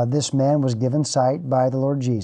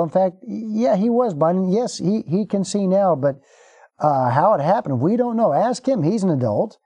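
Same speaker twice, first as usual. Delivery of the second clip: evasive parents; 5 semitones higher than usual. Retold or imitated. Parents dodge the question nervously.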